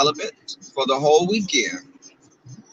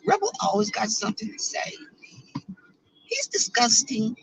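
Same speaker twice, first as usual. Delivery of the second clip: mocking Tracy; 8 semitones higher, 7 dB quieter than usual. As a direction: sneer it like a catty girl. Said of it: "She'd probably be like".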